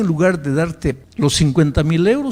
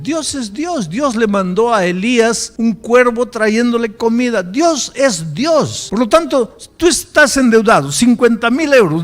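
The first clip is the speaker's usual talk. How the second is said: loud, high, impassioned preacher; full-force preaching; 8 semitones higher, 8 dB louder than usual. Real, not acted. Preacher assuring the indebted of God's power, preaching at full force. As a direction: proclaim it at full power, driving each phrase home.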